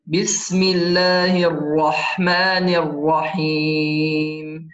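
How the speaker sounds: slow, measured tajweed recitation with long held vowels; Quran recitation. Shown as a demonstration. Teacher recites the verse for students, slow measured recitation. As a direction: recite it slowly, drawing out the final syllable.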